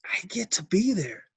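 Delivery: hushed, breath-only whisper; a real choked-up whisper of relief; emotional whisper. Real, not acted. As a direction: let it slip out under your breath, moved. Father moved, missing kids' events.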